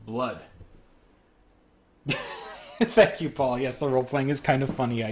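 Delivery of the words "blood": a touch of excitement, lightly acted; mildly excited voice. Jogger reporting blood to an officer, mildly excited. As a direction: read it as a mildly excited witness. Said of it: "an excited voice".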